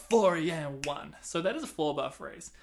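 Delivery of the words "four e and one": gasp then count. Shown as a demonstration.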